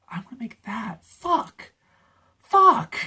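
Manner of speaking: envious line leaping into high curses; retold jealousy. Creator envying another's video, retold jealous outburst. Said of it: "get so jealous of as a creator".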